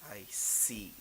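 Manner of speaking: soft, whispered acknowledgement; hushed reply. Acted. Woman's cool reply in story.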